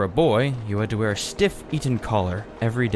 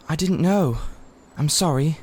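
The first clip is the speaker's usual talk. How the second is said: humbly; 5 semitones higher than usual. A narrator's reading. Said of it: "said Polly humbly".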